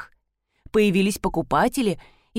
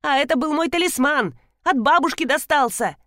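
angry; 6 semitones higher than usual. Acted. Coworker angry about broken box.

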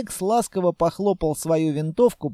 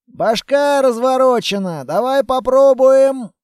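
loud, higher shout; calling out; 7 semitones higher, 7 dB louder than usual. A narrator's reading. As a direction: yell to his partner far away. Calling out across distance.

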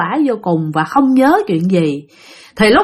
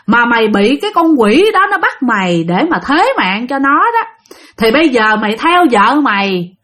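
raised, higher scolding of the grieving ghost; stern monk scolding, raised and high; 4 semitones higher than usual. Retold or imitated. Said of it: "ông thầy ông la".

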